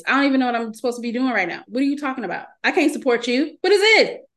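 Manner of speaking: lightly voiced body part fed up with its owner; complaining body voice. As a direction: play a protesting body, incredulous. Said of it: "That's how my body talks to me".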